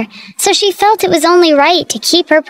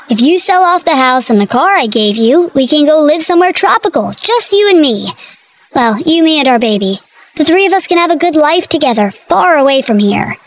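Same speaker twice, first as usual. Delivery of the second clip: eager; 2 semitones higher than usual. Acted. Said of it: "Brady said excitedly".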